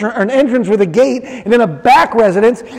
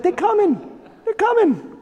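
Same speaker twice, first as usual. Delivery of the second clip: higher, softer urgent hush; soft, higher, hushed mock urgency; hushed urgent warning; 9 semitones higher, 6 dB quieter than usual. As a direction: warn them quietly so no one hears. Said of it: "he's like".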